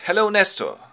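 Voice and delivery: put-on high, loud boyish greeting; Telemachos. Telemachos lands and greets old Nestor, high boyish voice. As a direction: greet him like an eager lad, pitched high. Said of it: "Telemachos goes out of the boat and says".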